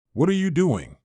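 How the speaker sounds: sudden high alarmed shout. A narrator's reading. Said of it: "she shouted at me".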